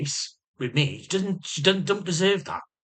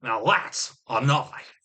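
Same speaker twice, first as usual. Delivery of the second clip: hammed-up, drawn-out movie quote; playful swaggering catchphrase; film-line impression; 4 semitones higher, slower than usual. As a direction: stretch out the famous line with mock bravado. Quoting Crocodile Dundee film line.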